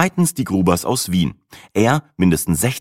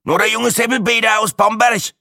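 put-on high, loud creaky old Bamberg man; creaky Franconian; 4 dB louder than usual. Old man from Bamberg introduces himself, creaky Franconian. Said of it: "knarzte er".

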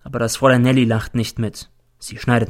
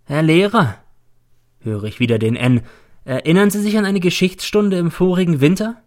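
lightly voiced reproachful boy, higher; a hint of a ghostly boy accusing his teacher; the dead boy N; 5 semitones higher, 3 dB louder than usual. Dead pupil reproaches his teacher, lightly voiced boy. N speaks again.

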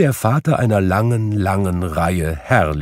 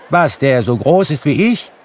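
put-on boy's surprised question; 7 semitones higher, 6 dB louder than usual. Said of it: "entgegnete der Junge".

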